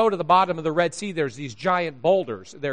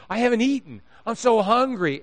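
higher-pitched imitation of hungry kids; grumbling kids; 5 semitones higher than usual. Kids who can't go two hours, mock grumbling. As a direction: lightly mimic a kid grumbling for food. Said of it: "they start grumbling".

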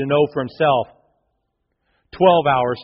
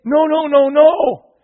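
1 refusal; 13 semitones higher, 7 dB louder, slower than usual. Retold or imitated. Parents refusing to help dig.

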